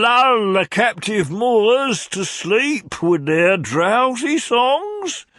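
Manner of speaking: high, very slow, swooning cry; lovesick old gentleman. A narrator's reading. Old gentleman wooing Mrs Nickleby, swooning. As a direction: croon it like a mad suitor.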